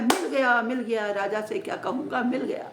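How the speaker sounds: loud, excited cry of discovery; excited shout. Acted. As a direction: shout it out like you just found treasure. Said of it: "चिल्लाया".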